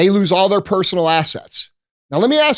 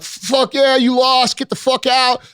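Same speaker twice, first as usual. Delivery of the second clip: higher-pitched taunting of the losers; mock gloating; 4 semitones higher, slower than usual. Imitating gloating leftists taunting Trump voters, mock gloat. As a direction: jeer it like a smug winner rubbing it in. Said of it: "Oh, they're all gloating".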